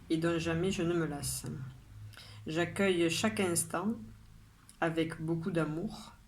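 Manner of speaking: measured poem reading, pausing after each line; poem recitation. Acted. Poet reads today's poem to her followers, measured recitation. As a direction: recite it line by line, drawing out the line endings.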